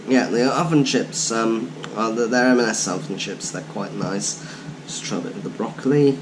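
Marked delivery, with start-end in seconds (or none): 4.9-6.2 talking through a mouthful; words round a bite of food; mouth full. Real, not acted. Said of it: "eating with my mouth full".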